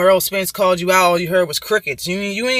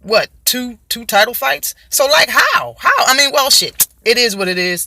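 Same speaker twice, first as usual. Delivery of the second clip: mimicking Danny Garcia; 4 semitones higher than usual. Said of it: "That's how he said it".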